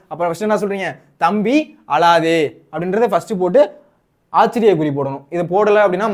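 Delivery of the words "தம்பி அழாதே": very slow, stretched-out plea; slow acted comforting of little brother; drawn-out consoling. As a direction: draw out each word to console a child. Model line consoling crying brother.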